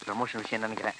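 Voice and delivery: very low, hushed aside; muttered aside. Acted. Subordinate guessing about promotion, muttered low and quiet. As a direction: mutter it under your breath, deep down.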